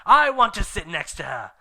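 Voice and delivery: high, loud jealous demand; Vampire arguing with Draco; petulant shout. Acted. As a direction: claim her loudly. Boys fighting over her.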